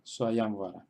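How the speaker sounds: "Swayamvara" accented on YAM; stress on YAM. Shown as a demonstration. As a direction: model "Swayamvara", weight on the long YAM. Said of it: "en la sílaba ya".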